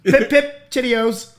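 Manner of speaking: hammy fake British chirp; badly faked British accent. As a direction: overdo a cartoon British accent. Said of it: "that wasn't even English".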